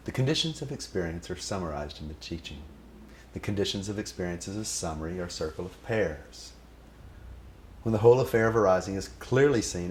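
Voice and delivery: measured solemn recitation of a scripture; proudly reciting the guru's own words back; recited teaching. Pretend. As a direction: recite it like sacred text. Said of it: "I thought I'd pick one of my favorites".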